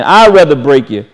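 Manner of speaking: hushed, tender echo of the divine word. Acted. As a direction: say it again gently, as a tender promise. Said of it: "This is what he's saying".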